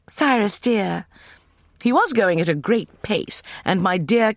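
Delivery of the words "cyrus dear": high, breathless and slow pleading. A narrator's reading. Catherine trots alongside her pacing husband, breathless. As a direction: puff it out while trotting to keep up. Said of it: "emitting breathless phrases like".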